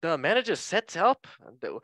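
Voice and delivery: put-on high, swooping botched Scouse accent; Jamie Carragher. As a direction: put on Scouse and lose control of it. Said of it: "let me try this again".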